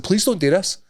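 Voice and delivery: hammed-up weary plea; mock pleading. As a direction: beg him to stop, half-joking. Pleading with the fan.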